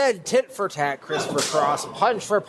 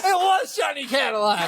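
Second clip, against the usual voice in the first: excited shout; 4 semitones higher than usual. Real, not acted. Excited trivia answer shout.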